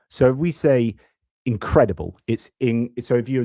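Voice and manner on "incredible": "incredible" with the second syllable stressed; stress on CRED in incredible. Shown as a demonstration. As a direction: say "incredible" the English way, leaning on CRED. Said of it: "the stress goes on the cred".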